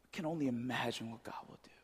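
breathy hush at the close of the prayer; a hushed awe-filled whisper. Real, not acted. Awed hush after surrender prayer.

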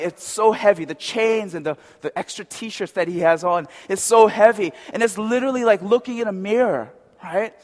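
normal talking voice

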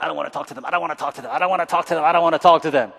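mock reluctant churchgoer grumbling, building; reluctant mutter building up. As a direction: mimic a shy believer repeating a refusal. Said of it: "some of you are like".

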